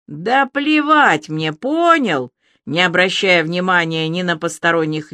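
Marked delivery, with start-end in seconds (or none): 0.1-2.3 angry. A narrator's reading. Alya yelling at Ilya.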